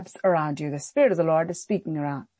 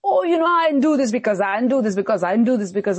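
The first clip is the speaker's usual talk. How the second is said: mock excuse; 3 semitones higher, faster than usual. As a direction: rattle off a lame excuse. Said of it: "trying to make yourself look good and say that".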